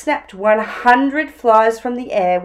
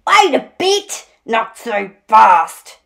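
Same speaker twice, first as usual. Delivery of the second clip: prickly echidna protest; bristling Echidna; 7 dB louder than usual. A narrator's reading. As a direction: cut in indignantly. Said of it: "he bristled".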